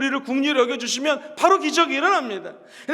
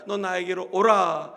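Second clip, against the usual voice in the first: gentle call; 7 semitones lower, slower than usual. Acted. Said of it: "예수님 말씀하십니다".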